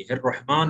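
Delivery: quick हिर्रहमान ending on a sounded n; wrong stopped ending. Shown as a demonstration. Teacher repeats what not to say, wrongly stopped ending. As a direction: say हिर्रहमान with the n wrongly closing the word. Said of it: "नहीं बोलेंगे".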